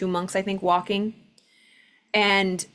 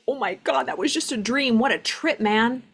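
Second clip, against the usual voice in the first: lightly lifted, amazed and relieved; like waking safe from a nightmare, a touch higher; relieved sigh of wonder; 3 semitones higher than usual. Retold or imitated. Someone just woken from a vivid dream, mildly relieved and amazed. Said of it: "so relieved".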